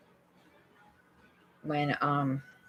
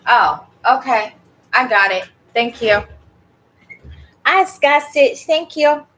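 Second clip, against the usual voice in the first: excited; 7 semitones higher, 10 dB louder than usual. Real, not acted. Thanking viewers loudly.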